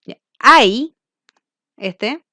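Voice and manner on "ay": a sharp, loud "Ay" cried out high; mock pained exclamation "Ay"; exclaimed ay. Shown as a demonstration. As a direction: cry "Ay" as if startled by pain. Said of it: "es una interjección".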